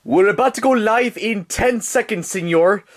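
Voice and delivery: high, slow sidekick voice; put-on high-pitched crew member; cameraman character. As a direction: call the countdown in a high cartoon voice. Cameraman announces countdown to star.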